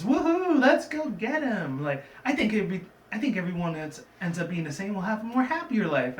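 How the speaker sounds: a party pony cheering everyone on; bubbly Pinkie Pie. Retold or imitated. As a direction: bounce through it, hammed-up hyper. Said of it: "She says".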